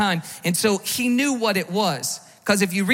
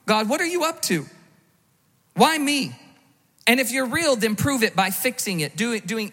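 accusing God. Retold or imitated. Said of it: "And we ask him".

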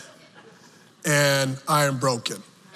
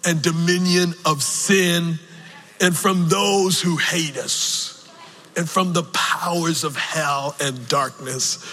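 slow preaching cadence; slower than usual. Acted. Preaching the cross, half sung.

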